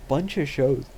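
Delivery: words stretched by a yawn. Real, not acted. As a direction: talk through a yawn. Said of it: "I am yawning".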